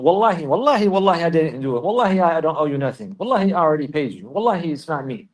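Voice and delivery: a liar loudly protesting his innocence; mock liar's oaths. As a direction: swear it up and down like a guilty man. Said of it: "If you tell him".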